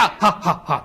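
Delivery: hearty demo laugh. Shown as a demonstration. Preacher showing the congregation his victory laugh, laughing. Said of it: "はっはっはと言います".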